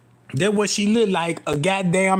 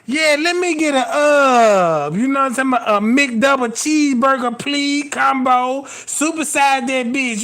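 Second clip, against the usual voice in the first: higher, lightly voiced customer; drive-thru order; 4 semitones higher than usual. Ordering a burger combo, a touch higher. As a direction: order it like at the counter. Ordering fast food at counter.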